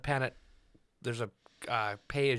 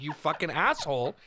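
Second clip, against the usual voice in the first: exasperated, mildly raised mock shout; retold shouting; 4 semitones higher than usual. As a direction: scold him in half-laughing indignation. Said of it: "I fucking shouted at him".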